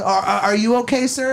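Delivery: mock-caring, as the other driver; fake sweet concern. Woman driver checking on the man she honked at, mock sweet. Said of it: "like, all sweet, like caring about it".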